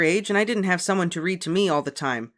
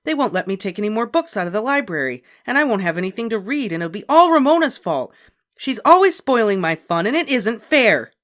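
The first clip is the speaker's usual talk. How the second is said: high, loud aggrieved demand; 9 semitones higher, 10 dB louder than usual. A narrator's reading. Beezus demanding help from mother, loud and aggrieved. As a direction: pour out the unfairness. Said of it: "Beezus demanded".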